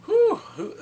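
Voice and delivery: high, loud laughing whoop. Real, not acted. Laughing reaction to actress.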